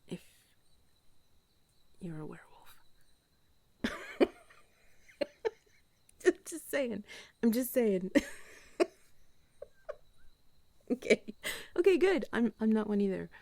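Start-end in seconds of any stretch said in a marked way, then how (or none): 3.8-13.3 giggly laughing. Real, not acted. Laughing after werewolf joke.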